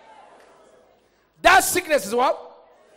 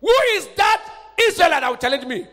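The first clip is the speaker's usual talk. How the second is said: Goliath's challenge; 5 semitones higher, faster than usual. Acted. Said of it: "If the day Goliath came out and said".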